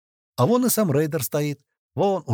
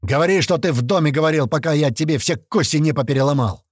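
hissing threat; 4 semitones higher, 5 dB louder than usual. A narrator's reading. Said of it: "зашипел на него парень".

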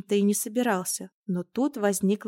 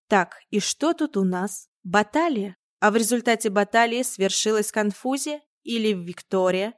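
brisk; 4 dB louder than usual. Acted. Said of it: "бодро уточнила Нина Ивановна".

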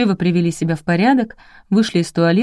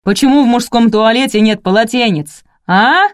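loud, higher bellow down the corridor; deafening yell; 5 semitones higher, 6 dB louder than usual. A narrator's reading. Boss yells into the corridor for staff, bellowing. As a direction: roar it into the hallway. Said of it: "заорал так, что у меня заложило уши".

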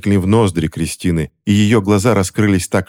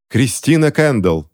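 exclaiming; 6 semitones higher than usual. A narrator's reading. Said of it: "воскликнула Скарлетт Тэтч".

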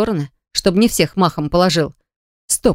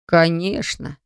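breathy; 3 dB quieter, much slower than usual. Acted. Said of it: "с придыханием отозвался Зет".

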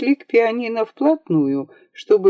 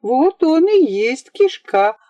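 put-on excited girl; 10 semitones higher than usual.

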